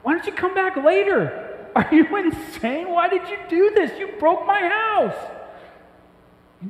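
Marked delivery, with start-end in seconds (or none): 0.0-5.2 high, slow, put-on voice of an exasperated homeowner; mock outraged Jesus. Preacher imagines Jesus scolding the men who broke his roof, high and slow. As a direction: play an indignant man whose roof got broken, slowly and much higher. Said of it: "He could have said".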